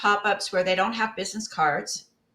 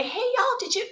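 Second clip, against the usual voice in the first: cheery vendor greeting; 11 semitones higher than usual. Pretend. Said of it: "Stand out there and say".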